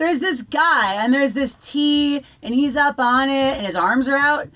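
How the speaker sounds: a lightly voiced little boy describing the cross; little brother. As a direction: explain it earnestly like a small child. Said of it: "He goes".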